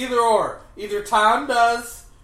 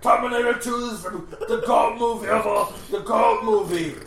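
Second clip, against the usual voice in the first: goat voice; 3 semitones higher, 4 dB louder than usual. Acted. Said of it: "doing an impression of a goat".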